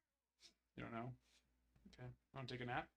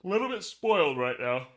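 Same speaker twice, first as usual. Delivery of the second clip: excited; 4 semitones higher, 15 dB louder than usual. Real, not acted. Gushing about a lucky streak.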